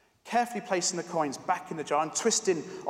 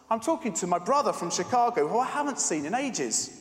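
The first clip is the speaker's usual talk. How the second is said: dismissive; 5 semitones higher, 4 dB louder than usual. Acted. Pharmacist brushing off the girl.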